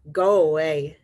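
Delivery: loud storybook shout from a grouch; grouchy shout. Acted. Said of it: "shouted the grouchy ladybug".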